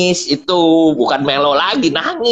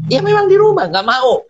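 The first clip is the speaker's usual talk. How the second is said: wife's retort; 13 semitones higher than usual. Retold or imitated. Husband quotes his wife refusing to dress up at home, high protest. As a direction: throw back her objection, pitched up high.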